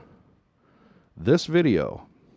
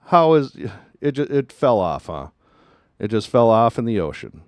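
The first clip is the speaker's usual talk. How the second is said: mock skeptic; 4 dB louder than usual. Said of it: "detractors would say".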